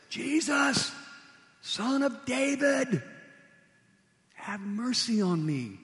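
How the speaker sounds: high, loud, stretched cry for mercy. Retold or imitated. Blind beggar crying out to Jesus over the crowd, high and loud. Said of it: "And even louder".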